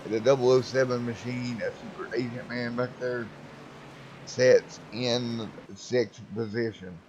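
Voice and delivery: ordinary delivery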